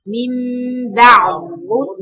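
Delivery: slow "بعد ظلمه" with the د merged into the ظ; assimilated d. Shown as a demonstration. Teacher demonstrating the assimilation to her students, slow and careful. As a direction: stretch "بعد ظلمه", the د turned into a held ظ. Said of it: "مفيش دال".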